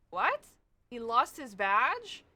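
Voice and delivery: captain can't believe the badge news, slow and loud; incredulous. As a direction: stretch out the disbelief.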